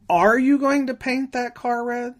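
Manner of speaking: you said high and hard, the rest plain; stress on you. Shown as a demonstration. Instructor demonstrating inflection, stressing you. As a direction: punch the word you to ask if it's really them. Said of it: "or emphasize one word".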